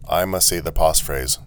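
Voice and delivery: lightly robotic statement of "I must say the passphrase"; automaton. Acted. Automaton telling the traveller its rule, evenly robotic.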